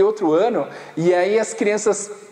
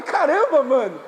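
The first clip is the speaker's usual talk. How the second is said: higher, startled reaction; mock shock; 7 semitones higher than usual. Retelling the patient's rotten teeth, mock startled reaction. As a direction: react as if hit by the smell.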